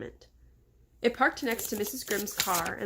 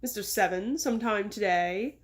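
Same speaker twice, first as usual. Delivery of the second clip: put-on impatient boss in an English accent, only mildly bellowed. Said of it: "bellowed in an English accent".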